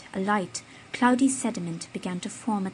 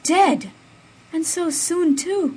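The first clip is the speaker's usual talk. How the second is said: higher, louder shocked cry; higher, louder amazement; amazed exclamation; 9 semitones higher, 8 dB louder, slower than usual. A narrator's reading. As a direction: gasp in amazed sympathy. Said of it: "exclaimed with real amazement and sympathy".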